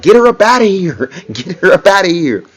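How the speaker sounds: imitating a woman yelling from the audience; mock yell from the crowd. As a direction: call it out like a fan in the crowd. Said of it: "the girl in the background yelling like".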